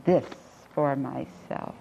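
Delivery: understated greed, each word drawn out; determined desire. Acted. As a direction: voice a deliberate "mine", unhurried and understated. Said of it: "strong desire or even greed".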